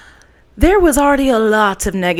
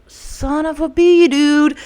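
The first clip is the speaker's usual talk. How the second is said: exasperated curse; 6 semitones higher, 4 dB louder, slower than usual. Retold or imitated. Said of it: "And I was like".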